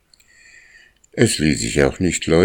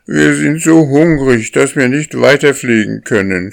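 much higher, loud hungry wail; goslings crying out; 9 semitones higher, 6 dB louder than usual. A narrator's reading. Hungry goslings crying to the lead goose, high and loud. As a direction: shout it up high like starving young geese. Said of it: "schrien die Jungen".

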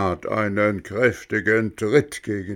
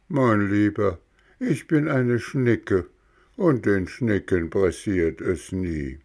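snail voice. Acted. Schnecke gelassen. (leicht höhere Schneckenstimme)

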